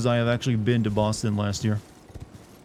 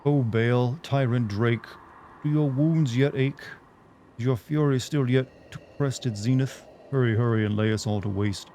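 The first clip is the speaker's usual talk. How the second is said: dramatic reading. Acted. Reads boss speech dramatically.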